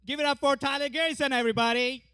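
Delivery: host announcement. Real, not acted. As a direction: announce the comic loud and long. Host introducing next comic.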